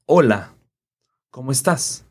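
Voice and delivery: Spanish "Hola, ¿cómo estás?" with silent h, clear vowels; Spanish greeting. Shown as a demonstration. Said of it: "we would say".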